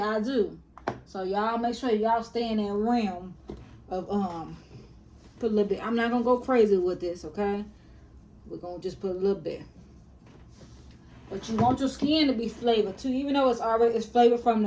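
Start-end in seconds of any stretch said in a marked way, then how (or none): none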